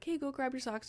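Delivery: light, casual request; retold offhand parental ask. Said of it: "I just very casually was like".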